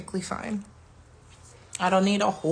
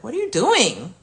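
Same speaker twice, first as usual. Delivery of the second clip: louder, firm irritated challenge; 2 semitones higher, 6 dB louder than usual. Retold or imitated. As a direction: call the kid out, sharp and annoyed. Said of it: "I might get irritated with something".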